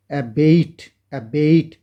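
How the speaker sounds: অ্যাবেট said slowly and clearly as "ebeit", twice over; repeated pronunciation drill. Shown as a demonstration. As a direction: drill অ্যাবেট as "a-beit" for the class. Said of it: "চার, পাঁচবার তুমি এটা উচ্চারণ করে একটু পড়ো". (অ্যাবেট ধীরে ধীরে বারবার উচ্চারণ)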